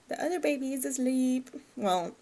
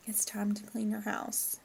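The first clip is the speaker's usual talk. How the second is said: whisper; 6 dB quieter than usual. Pretend. Whispered line to the Sim.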